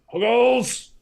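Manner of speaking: high, loud drawn-out holler; big high whoop of a greeting; yelled catchphrase. Pretend. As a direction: call it out like a rallying cry.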